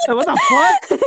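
very high, loud disbelieving cry; incredulous. Real, not acted. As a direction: squeal it in total disbelief. Disbelief at retold beating.

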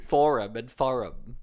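Forum said two ways, slowly, to compare them; saying Forum and forum side by side to hear the difference; two pronunciations. Shown as a demonstration. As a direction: slowly weigh Forum against forum. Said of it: "What's the difference?".

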